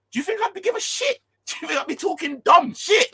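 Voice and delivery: high, loud, half-laughing shout; laughing outburst. Real, not acted. Mocking rivals to viewers, loud and laughing. Ranting at rival teams' attitude.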